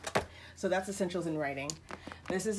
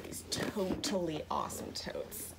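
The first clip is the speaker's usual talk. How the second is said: corny; slower than usual. Real, not acted. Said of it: "I can be corny".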